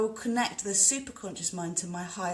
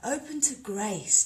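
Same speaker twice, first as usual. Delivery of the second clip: slow, slightly higher Open to grace; calm intoning; 4 semitones higher, slower than usual. Shown as a demonstration. Leading viewers through the principle again, slow and gentle. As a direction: repeat Open to grace slowly with gentle lift. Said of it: "first principle of Anusara".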